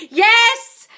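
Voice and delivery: real triumphant yes; cheer. Real, not acted. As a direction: cheer her on. Cheering viewer's success.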